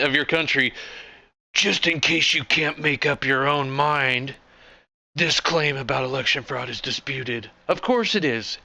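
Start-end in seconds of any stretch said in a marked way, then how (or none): 1.5-7.5 sarcastic quoting. Retold or imitated. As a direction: talk down like a nanny. Sarcastic paraphrase of Twitter label.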